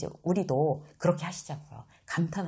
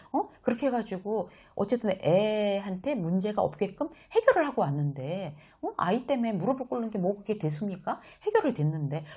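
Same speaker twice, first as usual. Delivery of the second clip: a hint of indignant insistence; 5 semitones higher, 3 dB louder than usual. 직원이 항변하는 재현.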